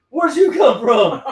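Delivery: loud, high, drawn-out mock surprise; startled question. Retelling a drunk man spotting his friend, hammed-up surprise. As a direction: ask it slowly in exaggerated shock.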